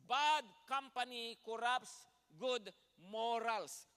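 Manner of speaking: repeated slow and loud, each word stressed; slow loud emphasis again. Shown as a demonstration. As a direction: repeat it slowly, pressing every word. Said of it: "Sabi po niya ulit sa English". (inulit nang mabagal at malakas)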